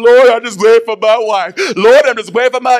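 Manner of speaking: pleading prayer. Retold or imitated.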